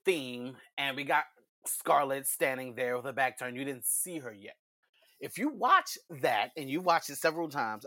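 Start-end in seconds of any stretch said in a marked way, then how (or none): 5.2-6.5 voice jumping up. Real, not acted. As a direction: pitch leaps up on THAT. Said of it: "my voice went up like an octave".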